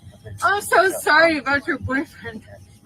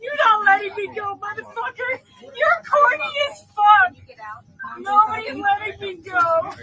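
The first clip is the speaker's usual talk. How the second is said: upset, crying protest in a raised pitch; tearful yelling; 3 semitones higher than usual. Real, not acted. Passenger protests that nobody lets her go, tearful yelling. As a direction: wail it as a real complaint.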